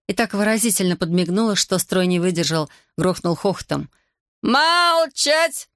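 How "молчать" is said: enraged shout. Acted. Corporal silencing laughing soldiers, enraged shout. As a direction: roar it at the laughing ranks. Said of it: "рассвирепел капрал".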